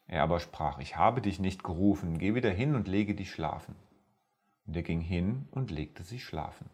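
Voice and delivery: measured, solemn scripture reading to listeners; Bible story reading. Acted. Preacher reading First Samuel to his podcast audience, solemn reading.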